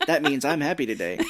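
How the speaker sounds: laughing mock German coworker; imitating a German coworker through laughter. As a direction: put on a harsh German accent, then laugh through it. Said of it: "And she'd be like".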